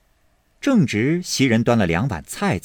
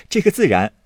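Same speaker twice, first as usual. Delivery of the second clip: short laugh then a raised, eager reply; amused easy promise; 8 semitones higher, faster than usual. Acted. Baoyu promising the maid with a light laugh. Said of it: "宝玉笑道".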